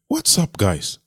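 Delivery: high, soft, offhand greeting; playful God aside; casual voice of God. Acted. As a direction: toss it off lightly, high. Preacher voicing God casually.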